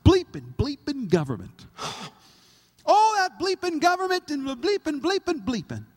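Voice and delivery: a loud grumbling rant at the government; griping barbecue guy. Retold or imitated. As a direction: rant while flipping burgers. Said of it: "He's like".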